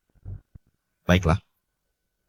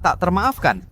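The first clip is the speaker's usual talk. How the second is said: outraged; 9 semitones higher, slower than usual. Acted. Outraged at slander of parents.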